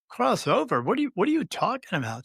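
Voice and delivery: high, bewildered question; can't believe what he's hearing; disbelieving. Retold or imitated. The speaker to the medium, high and bewildered.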